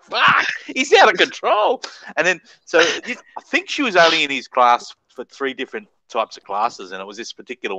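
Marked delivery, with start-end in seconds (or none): 0.0-1.8 high, slow retold shout of alarm; mock alarmed shout. Schoolboys panicking over their mate, slow, high mock shout. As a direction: shout it like a scared kid watching. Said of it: "We were like".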